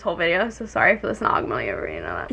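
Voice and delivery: congested, gurgling voice; chesty and clogged up; gurgly chest voice. Real, not acted. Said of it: "My chest is gonna gurgle".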